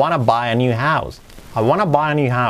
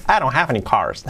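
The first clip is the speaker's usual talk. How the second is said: "I don't have any cars" linked, with "have" stressed; slightly exaggerated intonation. Shown as a demonstration. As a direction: overdo the tune a little on "have". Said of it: "exagerándolo un poquito". ("I don't have any cars" exagerándolo un poquito)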